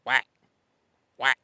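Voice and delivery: short sharp vocal quacks. Shown as a demonstration. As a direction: say whack like a duck quack. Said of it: "I just go".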